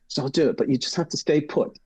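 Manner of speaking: imitating the British woman in a bad British accent. Host imitates British gatekeeper in a bad British accent. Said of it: "I have a bad British accent".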